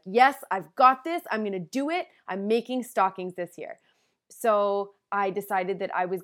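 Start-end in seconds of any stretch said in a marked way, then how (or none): 0.0-3.8 lightly acted pep talk to herself; confident resolve. Crafter psyching herself up to make stockings, confident.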